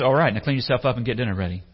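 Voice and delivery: fast, brisk master's order. Acted. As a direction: rattle off the chores like a boss. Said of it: "and the master says".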